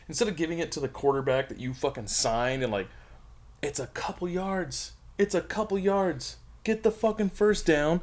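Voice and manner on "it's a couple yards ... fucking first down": exasperated. Real, not acted. Frustrated fan rant.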